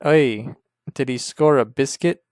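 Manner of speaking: lightly put-on Irish accent, "Oi" up front; a jokey Irish fan asking about the game; a hint of Irish brogue, rising at the end; mock Irish accent. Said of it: "that's how Irish people say basket".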